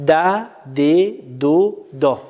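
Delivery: teacher sounding out دا. Shown as a demonstration. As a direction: build دا from د. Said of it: "دایه".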